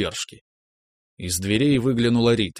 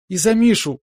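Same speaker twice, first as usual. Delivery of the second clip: put-on high, loud, jumping-for-joy girl; bouncing excitement; 11 semitones higher, 5 dB louder than usual. A narrator's reading. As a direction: squeal it while hopping around. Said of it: "запрыгала Настя". (сестрёнка радостно выкрикивает, подпрыгивая)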